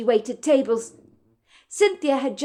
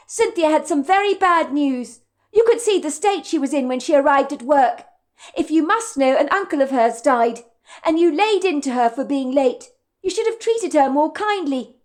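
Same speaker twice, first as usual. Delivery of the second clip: higher, earnest defiance; waitress justifying herself to the manager, pitched up; young waitress voice; 4 semitones higher than usual. Acted. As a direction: stand your ground, pitched up. Madison defends herself to boss.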